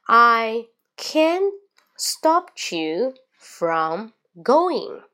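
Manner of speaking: slow, CAN'T lifted, GOING swooping up and down; wave-like intonation. Shown as a demonstration. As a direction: draw out "I can't stop you from going" in waves. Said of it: "有点像波浪线". (慢速，语调如波浪起伏，can't 上扬)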